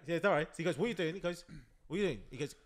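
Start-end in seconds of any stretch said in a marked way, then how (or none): 0.8-1.1 raised, higher scolding voice; mock-shout at your son; loud retold telling-off; imitated shouting dad. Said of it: "he starts shouting at his son". 1.9-2.2 raised, higher scolding voice; mock-shout at your son; loud retold telling-off; imitated shouting dad. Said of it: "he starts shouting at his son".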